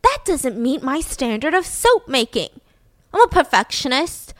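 lightly voiced disgusted soap-maker; fussy perfectionist. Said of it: "she's like".

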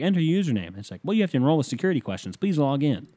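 high, fast robotic prompt; a website prompting him to log in, mock machine voice. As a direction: recite it like a login screen. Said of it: "They're like".

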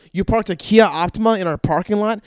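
high-pitched mock disbelief; scandalised. Dentist hearing about patient's cheap car, scandalised. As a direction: question it as a snooty affront.

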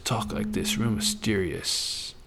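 slow, hushed, secretive whisper; mysterious whisper. Shown as a demonstration. Vlogger playing mysterious for the camera, whispered. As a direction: keep it low and sly. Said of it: "sneaky and mysterious".

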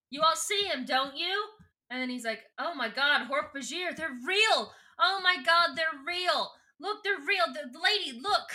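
hammed-up lunatic pointing out monsters; frantic madman. Street crazy telling the room they're real, frantic. Madman ranting about Hork Bajir.

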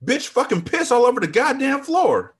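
high, loud disgusted shout; outraged yell. A narrator's reading. Manager yelling about the floor, disgusted shout. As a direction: bark it in disgust.

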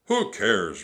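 loud dismissive roar; Captain Bones. A narrator's reading. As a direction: roar it off scornfully. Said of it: "roared Captain Bones".

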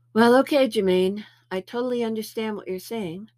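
mock agreement.

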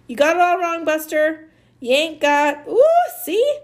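loud, high-pitched tirade; angry outburst. Acted. Amanda sets Maniac straight before kicking him, loud angry outburst.

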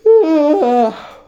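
loud high yawn; a big stretching yawn out loud. Real, not acted. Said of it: "Eu tô bocejando".

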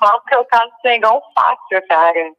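on speakerphone. Real, not acted. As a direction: voice over a phone speaker. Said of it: "Tem no Viva Voz".

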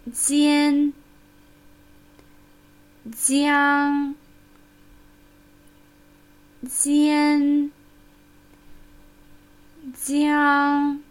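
"Jian" light front n, "jiang" dark bell-like ng; n versus ng demo. Shown as a demonstration. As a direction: alternate "Jian" with clear n and "jiang" with ringing ng. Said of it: "Achten Sie bisher nur auf das Ende der Silbe, auf n".

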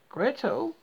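high, loud angry call. A narrator's reading. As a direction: call her sharply in a passion. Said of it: "she called in a passion".

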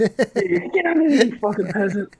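put-on a bossy kid sneering down at his victim; mock bully order. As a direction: bark it at him like a bully.

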